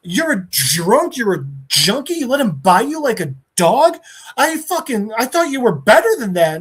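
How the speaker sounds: high-pitched hurt accusation, stretched insults; mock screaming. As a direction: imitate a screamed scolding without full volume. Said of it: "he starts fucking screaming at him".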